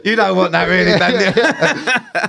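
웃음을 터뜨리며 놀리듯 말하기; laughing tease. Real, not acted. Laughing teasing reply.

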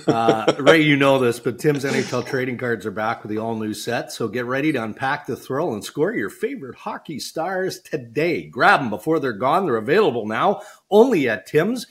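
upbeat sponsor read. Acted. Host reading the Tim Hortons ad to co-host, upbeat. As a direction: sell it like a radio spot.

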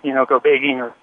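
talking while short of breath; out of breath, catching air between phrases. Real, not acted. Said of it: "I'm a little out of breath".

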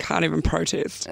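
soft croaky voice; barely voiced rasp; lost voice. Real, not acted. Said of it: "pretty much lost her voice".

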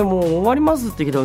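ordinary talk, nothing marked

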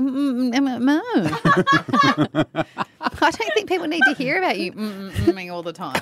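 laughing mm sounds; suggestive mm. Real, not acted. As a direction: tease with moaning mms.

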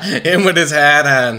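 put-on Boston accent with a laugh.

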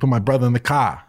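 a quick go at a Boston accent. Shown as a demonstration. Co-host topping the host's failed try, Boston accent. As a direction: show them how Boston sounds. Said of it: "that was your Boston accent".

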